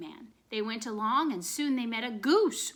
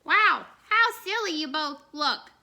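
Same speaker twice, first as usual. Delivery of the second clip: dog's voice; 6 semitones higher, 7 dB louder than usual. A narrator's reading. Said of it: "said the dog".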